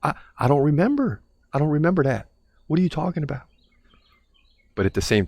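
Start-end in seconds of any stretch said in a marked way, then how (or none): 0.0-3.4 flustered husband. Retold or imitated. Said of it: "be like".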